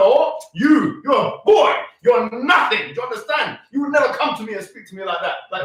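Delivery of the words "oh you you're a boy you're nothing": mocking quote. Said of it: "calling her".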